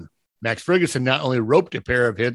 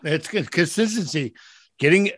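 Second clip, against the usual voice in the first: ice in mouth. Real, not acted. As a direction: mouth numb from ice water. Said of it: "it's freezing my mouth and it, it's making me sound like it does".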